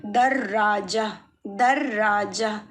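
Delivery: दर राजा said slowly, doubled r, breathy h ending; slow, deliberate model reading of दर राजा; word drilled slowly. Shown as a demonstration. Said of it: "ह की तरह ही pronounce".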